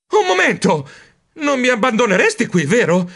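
high-pitched, urgent appeal; anxious plea. A narrator's reading. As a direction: beg not to be left behind. Pleading not to be left behind. (supplica ansiosa e acuta)

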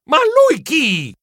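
slow high "who?"; bewildered. Acted. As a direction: gasp it out, baffled. Bewildered while shaken.

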